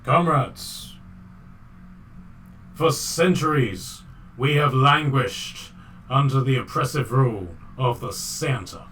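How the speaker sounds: slow, deliberate bad Russian oratory; bad Russian accent. Reindeer addressing its comrades, hammy Russian accent. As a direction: orate grandly in a terrible Russian accent. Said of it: "in the worst Russian accent".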